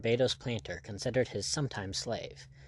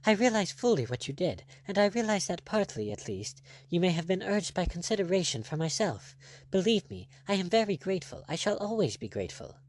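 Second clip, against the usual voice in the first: lightly voiced lady; 7 semitones higher than usual. Heroine voiced higher than narration.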